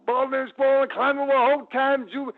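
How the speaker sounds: high and loud, pumped up; hyped ring persona. Retold or imitated. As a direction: keep the showman energy rolling.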